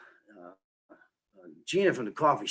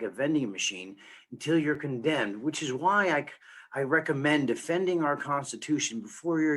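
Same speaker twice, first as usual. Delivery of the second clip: steady rhyming spoken-word delivery; poem recital; 3 semitones higher than usual. Acted. Poet reading their own verse about defending the Constitution, spoken-word recital. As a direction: recite it line after line, landing on the rhymes.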